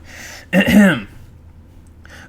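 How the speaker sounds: throat clearing. Real, not acted. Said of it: "get my pirate voice on".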